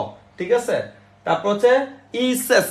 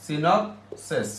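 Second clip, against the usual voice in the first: slow dictation; 2 semitones lower, 4 dB quieter, much slower than usual. Shown as a demonstration. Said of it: "এগুলির বাইরে কিন্তু question আসে না".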